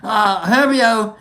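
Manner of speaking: lively, hammed-up English-Australian accent; put-on English accent. Streamer thanking viewers in chat, in a mock English accent. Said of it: "get into my shitty little English accent".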